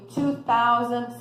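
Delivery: "two thousand" said slowly, stress on "two"; slow model number. Shown as a demonstration. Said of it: "teacher modelling numbers".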